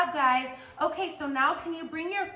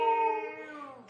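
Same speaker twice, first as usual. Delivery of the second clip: kitty meow; 6 semitones higher than usual. Pretend. Teacher meowing with kids in cat pose, cute meow. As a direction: mew like a little cat. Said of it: "Can we say meow?".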